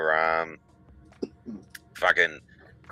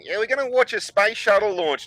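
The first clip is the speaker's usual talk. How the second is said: teacher impression; 12 semitones higher than usual. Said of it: "Miss Chadwick goes".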